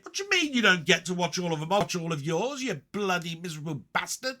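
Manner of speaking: playful mock indignation at a friend; mock rant. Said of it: "Rant over".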